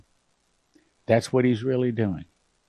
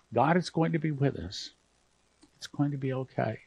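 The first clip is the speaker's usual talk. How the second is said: holding back tears; 6 dB quieter than usual. Real, not acted. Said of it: "I'm trying not to get emotional here".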